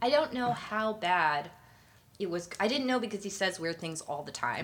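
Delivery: chewing while talking; mouth full. Real, not acted. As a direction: talk through a mouthful. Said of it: "Sorry, I'm eating my M&Ms".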